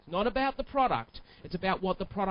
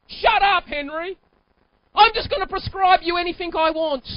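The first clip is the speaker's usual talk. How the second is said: loud, higher mock-rude doctor; 9 semitones higher, 10 dB louder than usual. Doctor dismissing Henry, mock loud and rude. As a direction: bark at the patient like a careless quack. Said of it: "and I go to Henry".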